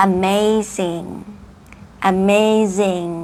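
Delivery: "amazing" slowly, with a ringing final NG; "amazing" as a slow, clear model; clear ending. Shown as a demonstration. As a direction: stretch MAY and sound the end of "amazing". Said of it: "จะได้ยินชัดเลย".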